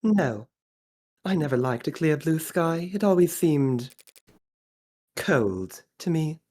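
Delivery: put-on upper-class Australian voice; posh Australian accent. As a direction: speak with a posh Aussie accent. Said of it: "I'm going for posh Australian".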